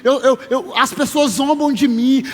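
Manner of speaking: lightly acted desperate plea; a woman's imploring prayer, mildly dramatized; pleading prayer. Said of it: "ela tá no templo orando".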